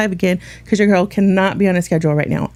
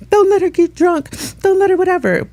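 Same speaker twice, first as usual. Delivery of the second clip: mock quote; 9 semitones higher than usual. Quoting Joe's warning.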